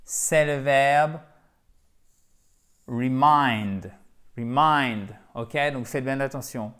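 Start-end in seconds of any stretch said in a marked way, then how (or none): 2.9-5.1 reMIND, the second syllable stressed; teacher drilling the stress of remind on its last syllable. Shown as a demonstration. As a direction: land on MIND in remind. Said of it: "avec un accent tonique sur la deuxième syllabe".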